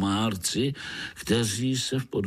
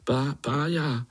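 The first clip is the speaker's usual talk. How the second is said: stutter; 5 semitones higher than usual. Acted. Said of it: "nemusíš koktat".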